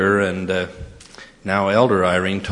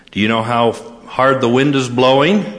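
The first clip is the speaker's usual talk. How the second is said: higher, rising mock-insistent question; pointed question; 4 semitones higher, 4 dB louder than usual. Student phoning the college president about the wind, pointedly questioning. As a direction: press the question as the worried caller.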